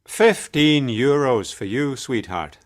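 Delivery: friendly cabbie with a smile; smiling. Acted. Taxi driver gives passenger the fare, smiling. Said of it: "said the taxi driver with a smile".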